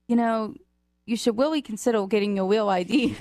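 R's turned to W's in REALLY and REAL; speech impediment imitation. Clerk urging a customer to get an ID, imitated speech impediment. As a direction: say REALLY as "willy", REAL as "weal". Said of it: "she has a speech impediment".

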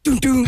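voiced double thunk; imitated locked-door sound. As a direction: mimic yanking a stuck door. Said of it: "So I went".

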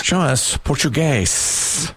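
slow, drawn-out host call; game-show reveal call. Pretend. Host calling to the board for Australian, drawn-out reveal call.

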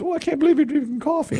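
high fast mock mother voice; imitating mother. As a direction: son mimics his mother's surprise at the rest stop, high and quick. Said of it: "She goes".

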